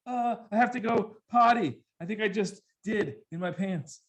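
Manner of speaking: put-on high, small kid voice; whimpering little boy confession; scared little kid to mom at night. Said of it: "I'm like".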